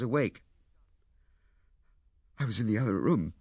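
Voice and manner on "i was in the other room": earnest, emotional explanation; full of emotion. Acted. Lewisham explains himself to Ethel, full of emotion. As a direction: say it with feeling held just under. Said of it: "in a voice full of emotion".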